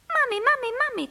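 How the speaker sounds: high, chirpy little-bird voice; a shrunken boy chirping for his mother. A narrator's reading. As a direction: chirp it like a tiny bird calling. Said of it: "cvrlikal Filip".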